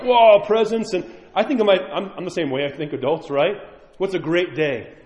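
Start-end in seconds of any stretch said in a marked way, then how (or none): 0.0-0.9 high, louder mock child's wow; a touch of a child's amazement at Christmas presents; kid's delight. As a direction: play a kid gasping at gifts.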